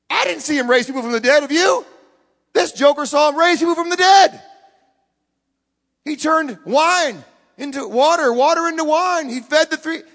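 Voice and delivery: high, loud, indignant pressing; acted loud challenge. Accuser pressing the disciple about miracles, loud and incredulous. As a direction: throw it back high and loud.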